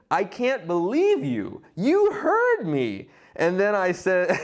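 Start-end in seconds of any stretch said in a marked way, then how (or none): 0.1-3.1 disbelief. Retold or imitated. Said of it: "He said".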